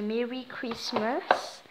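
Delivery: French-accented English, drawn out slowly; French accent on a slow English holiday greeting. Real, not acted. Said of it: "on adore mon accent anglais".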